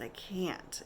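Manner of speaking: barely whispered, exhausted; whispered refusal. Retold or imitated. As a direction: breathe it out weakly, no voice. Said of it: "It was more "I can't".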